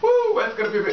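high whooping hype shout; excited greeting. Real, not acted. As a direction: whoop it out big to the crowd. Hyped greeting to viewers.

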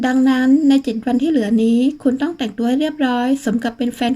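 firm, mildly stern instruction. Acted. Boss tells her on the phone how to dress, mildly stern. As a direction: lay down the rule, lightly stern. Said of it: "ว่าเสียงเข้มและวางสายลง".

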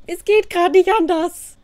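loud, high protest; exasperated outburst. Real, not acted. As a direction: burst out loudly, pitch jumping up. Defends ugly placement while stressed.

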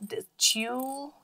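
"tulip" stretched and broken, testing the U; sounding out wrongly. Shown as a demonstration. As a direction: sound out "tulip" slowly, haltingly, as if unsure. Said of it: "that U doesn't sound".

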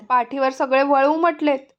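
put-on sulky child snapping back at his mother; mildly angry boy refusing the curd; angry retort. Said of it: "मी रागाने म्हणालो".

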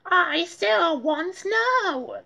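put-on high, slow stubborn boy; Arthur insisting. A narrator's reading. Arthur insisting to the Brain he wants snow. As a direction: drag it out stubbornly. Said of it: "said Arthur".

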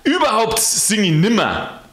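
grumbling rant. Acted. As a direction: rant at God like a cranky porter. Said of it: "im Schimpfen drin".

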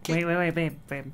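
loud urgent wait wait; urgent call. Real, not acted. Partner stopping the shouting.

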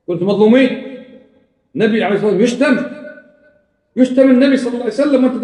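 mock outrage. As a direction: ham up their wounded cry. Mocking the opponents' outrage. (سخرية بصوت عال وغضب مصطنع)

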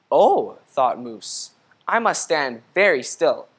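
gentle storybook read-aloud; reading to children. A narrator's reading. Teacher reading a picture book to the class, gentle read-aloud. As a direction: read it like story time for kids.

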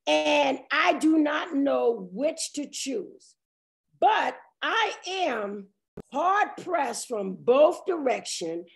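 slow, measured Bible reading; weighty, drawn-out pulpit reading; scripture reading. Real, not acted. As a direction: read the verse out deliberately, phrase by phrase. Reads scripture aloud.

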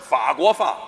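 法国话 ending wrongly in fa, faguofa; garbled pronunciation. Acted. Comic insisting he says it alike, garbles 法国话 as faguofa. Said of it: "你想说法国话吧".

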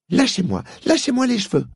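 high rising yell; screamed. Acted. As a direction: scream at the witch to let go. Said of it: "hurla Polly". (hurlé de plus en plus aigu)

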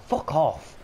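furious gamer shout; angry outburst. Real, not acted. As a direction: let the anger burst out. Angry at own teammates.

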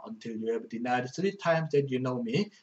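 each English word read slowly and clearly; slow verse reading. Shown as a demonstration. Teacher reading a verse to Korean students, slow and clear.

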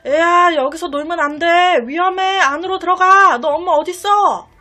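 loud worried call; shouting to a child. Retold or imitated. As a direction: call out loud to a kid near danger. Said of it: "막 소리 질렀어요".

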